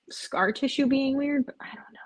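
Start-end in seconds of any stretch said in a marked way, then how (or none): 1.4-2.0 whispered trail-off. Real, not acted. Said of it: "trails off in whisper".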